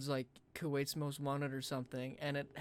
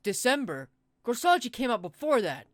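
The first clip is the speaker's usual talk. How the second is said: loud, high gasp of disbelief; shocked realisation; 5 semitones higher, 9 dB louder than usual. Real, not acted. Friend realising the dates line up, loud shock. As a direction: burst out as the dates click.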